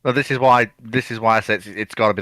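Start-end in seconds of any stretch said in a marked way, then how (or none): none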